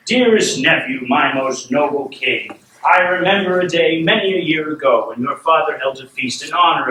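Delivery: grand royal toast. Acted. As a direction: proclaim solemnly to the assembled court. Voices Lord Tyrion's toast.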